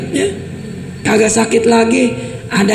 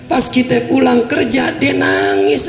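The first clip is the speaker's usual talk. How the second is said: tender husband; slower than usual. Retold or imitated. Husband voiced pitying crying wife.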